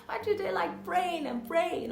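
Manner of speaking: high-pitched imitated South African accent. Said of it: "He had this South African accent".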